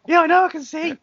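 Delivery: high, loud mock brush-off; smug throwaway. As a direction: toss it off smugly. Mocking his friend's throwaway reply.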